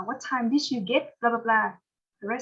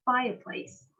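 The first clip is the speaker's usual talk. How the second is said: "Fireplace" with FIRE prominent; stress on first syllable; 4 dB quieter, much slower than usual. Shown as a demonstration. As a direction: read out "Fireplace", stressing FIRE and falling after. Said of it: "fireplace thì mình nhấn âm nhất".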